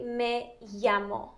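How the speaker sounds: "me llamo" as meh YAH-mo; ya sound. Shown as a demonstration. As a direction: say the double L in "me llamo" as a Y. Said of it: "you're just doing the".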